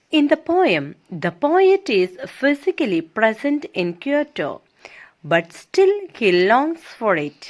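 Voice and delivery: slow, deliberate classroom reading; reading aloud. Shown as a demonstration. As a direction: read each word out slowly for the class. Teacher reads English text aloud. (പതുക്കെ വായിക്കുന്നു)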